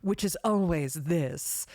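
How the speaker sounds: slow, sultry femme fatale. Shown as a demonstration. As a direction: purr it slowly like an anime seductress. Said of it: "or my femme fatale voice".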